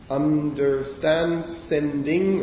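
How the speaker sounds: "Understand, sending" slowly, in counted syllables. Shown as a demonstration. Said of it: "how many syllables do those two words have".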